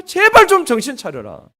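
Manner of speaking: 제발 pushed hard, pleading and loud; urgent plea. Shown as a demonstration. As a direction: shake them awake with 제발. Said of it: "이 말은요".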